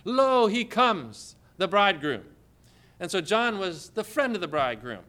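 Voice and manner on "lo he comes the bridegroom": prophet's proclamation. Acted. John proclaiming the coming bridegroom.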